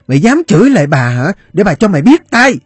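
high, loud menacing threat; threatening. A narrator's reading. Fat woman threatening the boy who talked back, menacing. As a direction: raise the voice to threaten a beating.

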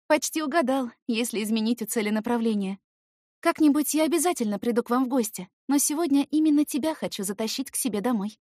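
put-on high teasing girl voice; playful, inviting tone. Girl's voice.

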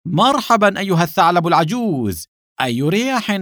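hearty, high-pitched greeting; shouted welcome. A narrator's reading. Don welcoming the old fox with open arms, shouted welcome. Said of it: "وهو يصيح مرحبا".

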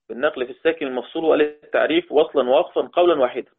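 brisk run-through of a rule; reciting the rule at speed; quick recap. Real, not acted. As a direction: rattle it off as a fast revision. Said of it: "نقول من الأول بسرعة".

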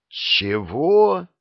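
a shocked, falling what; astonished what. A narrator's reading. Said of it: "Алексей выпучил глаза". (громкое изумлённое «Чего?»)

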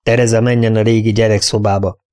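a firm, level correction; interrupting firmly. Acted. Mistress overruling her companion's plan, firm and level. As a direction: cut her off and set it straight. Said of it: "szakította félbe".

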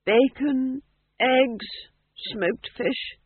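high, wistful food list; rapt, hungry reverie; dreamy. A narrator's reading. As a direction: savour each dish separately. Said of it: "he said dreamily".

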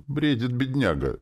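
high-pitched, pitying sorrow; sorrowful. A narrator's reading. Rene pities the raving injured man, sadly. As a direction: lament over him sadly. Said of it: "печально проговорил Рене".

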